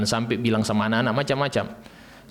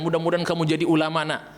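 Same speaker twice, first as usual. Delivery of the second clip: kind prayer; 4 semitones higher than usual. Shown as a demonstration.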